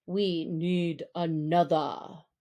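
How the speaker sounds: low, stern pack leader; measured, deep command to the wolves; Akela. Acted. Leader wolf warning the free people, low and stern.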